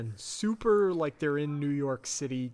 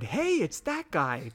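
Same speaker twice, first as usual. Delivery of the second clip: mock shout; 3 semitones higher than usual. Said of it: "and I shouted".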